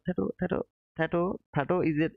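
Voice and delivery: trying out the name Thato, repeated unsurely; trying a pronunciation. Real, not acted. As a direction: test how to say "Thato". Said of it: "is that the ri-, right pronunciation".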